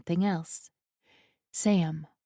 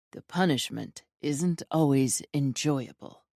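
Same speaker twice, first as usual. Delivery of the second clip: lightly lowered, commanding male voice; a hint of a cold, controlling lover; low dominant man voice; 4 semitones lower than usual. Remembered words of dominant lover.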